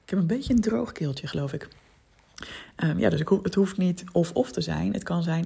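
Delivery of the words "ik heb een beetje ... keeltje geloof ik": just after a sip of water. Real, not acted. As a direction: talk right after swallowing water. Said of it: "even een slokje water".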